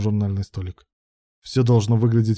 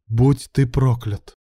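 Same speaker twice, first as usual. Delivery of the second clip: slow curse through the teeth; through gritted teeth; slower than usual. A narrator's reading. Betrayed man cursing as he leaves, through teeth. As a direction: force it out slowly, teeth clenched. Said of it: "процедил сквозь зубы Илья".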